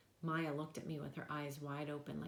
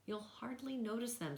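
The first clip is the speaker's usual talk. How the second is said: cheerful; 6 semitones higher than usual. A narrator's reading. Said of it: "trying to be cheerful".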